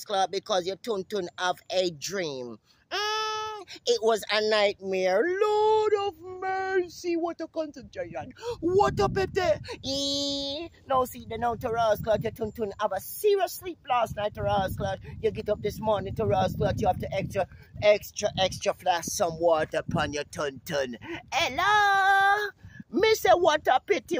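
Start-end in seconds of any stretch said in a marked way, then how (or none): 2.9-10.7 high, slow falsetto lament; mock lament. Lamenting the listener's bad night in a high falsetto. 21.3-24.2 high, loud crying hello; high mock wail. Calling out a mock lament in a high wail.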